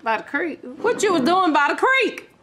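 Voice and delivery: mock country scolding, lifted pitch; scolding Texan parent. Mother in pretend telling-off about the creek, Texan scolding. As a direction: play a scandalized Texan mother.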